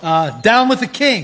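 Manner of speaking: put-on rebel slogan in an American accent; convincing, natural American accent. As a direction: give a sample of plain American speech. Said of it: "can you do a convincing American accent".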